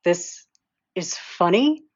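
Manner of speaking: loud, slow laughing shriek; laughing loud and high; shrieking with laughter. Acted. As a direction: crack up as you say it. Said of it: "I shrieked, laughing harder".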